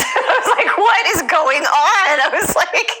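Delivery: high, laughing disbelief. Real, not acted. Telling the host about the counselor, laughing in disbelief. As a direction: laugh it out, amazed at the coincidence.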